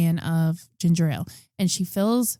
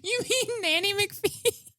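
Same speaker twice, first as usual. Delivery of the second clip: incredulous; 13 semitones higher, 5 dB quieter, slower than usual. Real, not acted. Incredulous correction.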